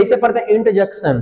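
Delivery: इंटरजेक्शन with no r, as in-ta-jek-shun; teacher models correct इंटरजेक्शन softly; right pronunciation. Shown as a demonstration. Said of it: "यहाँ पे आर sounded नहीं होती है".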